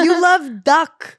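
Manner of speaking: mock adoring. Host listing the author's loves, slow cooing. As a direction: coo it like a smitten fan.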